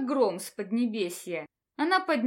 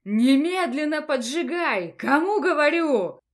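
furious command; 3 semitones higher, 7 dB louder than usual. Acted. Dean demands angrily.

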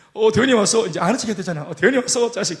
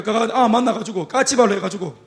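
ordinary delivery

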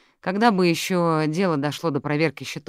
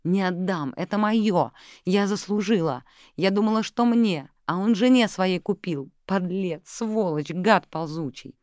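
higher, spitting out each insult; bitter snarling rant; 5 semitones higher, slower than usual. Acted. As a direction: snarl it like a cornered fox. Inga raging over the jewels.

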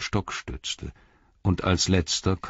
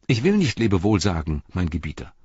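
a loyal hobbit refusing farewell; earnest hobbit Pippin. Acted. Pippin answers his lord.

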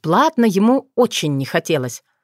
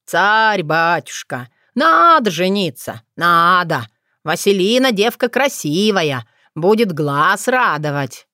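coaxing. Acted. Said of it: "ласково обратился к Гороху".

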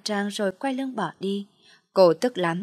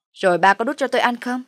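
sarcastic jab; 4 semitones higher, 5 dB louder, faster than usual. Acted. Jealous retort to father.

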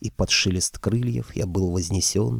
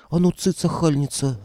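barked; 7 semitones higher than usual. Acted. Aunt barking at the girl to shut up, angry. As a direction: snap at the girl to hush. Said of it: "рявкнула тётушка".

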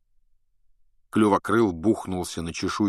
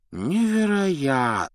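amused astonishment; 7 semitones higher, slower than usual. A narrator's reading. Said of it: "весёлого изумления".

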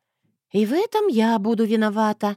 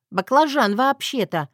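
snarky correction; 5 semitones higher than usual. Acted. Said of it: "вредно буркнула я".

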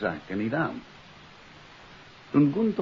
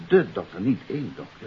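"de" and "één" hit firmly against each other; stress on de versus één; 4 dB louder than usual. Shown as a demonstration. Detective stressing the clue to his colleagues, firm contrastive stress. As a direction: lean on "de", then on "één". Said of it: "Let wel".

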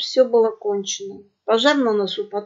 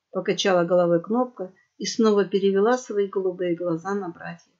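plain reading voice

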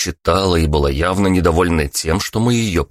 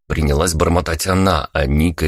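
usual speaking voice

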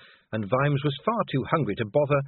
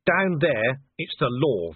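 panting; slower than usual. Acted. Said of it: "Vimes panted".

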